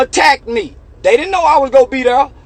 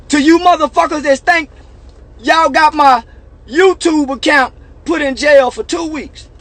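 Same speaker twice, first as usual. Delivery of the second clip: mocking shout; 5 semitones higher, 3 dB louder than usual. Real, not acted. Shouting at critics.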